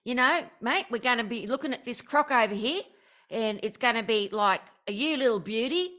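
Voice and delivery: broad Ocker Australian bushman; lightly exaggerated Ocker Aussie; Ocker accent. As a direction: play a matey Ocker croc wrangler. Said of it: "the Ocker accent is like Paul Hogan".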